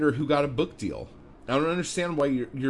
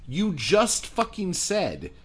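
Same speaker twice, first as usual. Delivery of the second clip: heated rant; 5 semitones higher, 3 dB louder than usual. Real, not acted. Ranting back at the writer.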